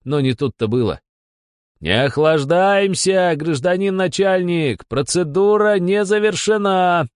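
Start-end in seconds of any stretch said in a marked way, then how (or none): 1.8-7.1 roaring. A narrator's reading. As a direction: roar it, blocking the door. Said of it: "проревел Бесов". (медленный громкий рёв)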